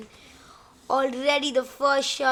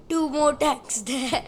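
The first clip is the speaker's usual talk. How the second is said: talking through a real laugh; amused, chuckling mid-phrase. Real, not acted. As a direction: let a laugh break into the words. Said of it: "This is making me laugh".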